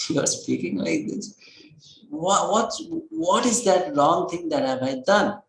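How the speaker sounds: understated tearful reproach; mildly tearful hurt. Acted. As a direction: protest like a hurt wife, acted. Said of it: "was also crying because she was thinking".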